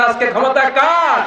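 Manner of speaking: কার hit high and loud; loud, high call of আজকে ক্ষমতা কার; shouted question. Shown as a demonstration. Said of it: "চিৎকার করে বলবেন, আসতে বলবেন না".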